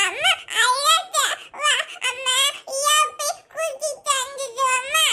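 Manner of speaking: slow, soft words while weeping; crying. Acted. Mother breaks down over her daughter's rejection, softly crying. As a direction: choke the words out through tears.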